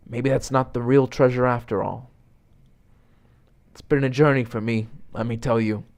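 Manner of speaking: lightly voiced buddy, softening into heartfelt thanks; sincere hot dog lover.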